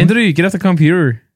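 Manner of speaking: put-on Belfast accent; Northern Irish accent. Shown as a demonstration. Proving he can do the accent, Northern Irish telling-off. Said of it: "I'm, uh, Northern Irish".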